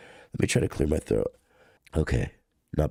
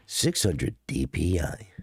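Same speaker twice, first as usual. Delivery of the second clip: DPI voice. Pretend. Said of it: "sick voice is giving them D P I energy".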